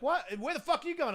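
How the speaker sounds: high, loud mock interrogation; super aggressive. Cop challenging him in a retold stop, aggressive. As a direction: imitate an officer demanding answers. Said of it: "getting super aggressive with me".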